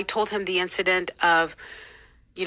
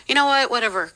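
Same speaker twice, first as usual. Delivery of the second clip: high, louder dismissive outburst; 4 semitones higher, 4 dB louder, faster than usual. Retold or imitated. Retelling a church leader exchange, dismissive. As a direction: cut in and brush it off.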